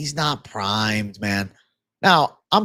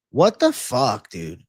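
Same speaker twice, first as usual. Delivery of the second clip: exasperated outburst; 6 semitones higher than usual. Real, not acted. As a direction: blurt it out in disbelief. No prop line posted.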